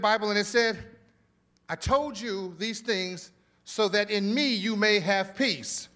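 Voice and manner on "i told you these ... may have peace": slow, weighty reading of the verse; slow deliberate reading. Shown as a demonstration. Pastor reading the Holman verse to the church, slow and weighty. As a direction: lean on each word slowly. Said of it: "Watch this".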